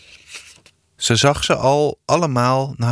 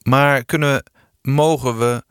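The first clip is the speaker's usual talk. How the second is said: flustered, halting restart; almost stammering; 3 semitones higher than usual. Acted. Pa caught off guard by the kids, flustered and halting. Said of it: "pap begon er bijna van te stotteren".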